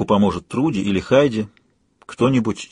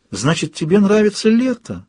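higher-pitched hopeful question; 9 semitones higher than usual. A narrator's reading. Narrator asks the waking woman about summer, hopeful. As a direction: ask it with hope, pitch lifted. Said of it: "с надеждой спросила я".

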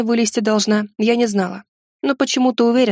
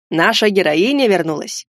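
exclaiming wood spirit. Acted. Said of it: "воскликнул Тарш".

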